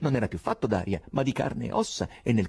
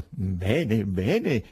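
fake affability; 3 dB louder than usual. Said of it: "disse con finta affabilità Berlioz".

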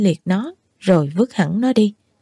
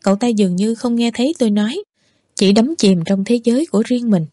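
ordinary delivery, nothing marked

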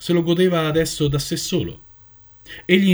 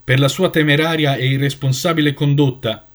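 intoning, slightly raised and firm; solemn voice; 3 dB louder than usual. Acted. Elder reads the charges to the flock, solemn. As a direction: chant the charge like a ritual. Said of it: "intonava la voce solenne".

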